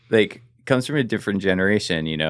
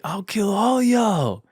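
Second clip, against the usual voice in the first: retold threat yell; 11 semitones higher, slower than usual. Drunk attacker threatening the street, mock yell. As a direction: imitate a drunk man threatening everyone. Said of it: "just starts yelling at everyone".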